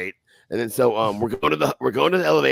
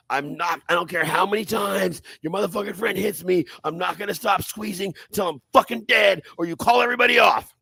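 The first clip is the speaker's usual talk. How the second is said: building defiant yell; 7 semitones higher than usual. Retold or imitated. Retelling his threat while squeezing, rising to a shout. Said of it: "and I said".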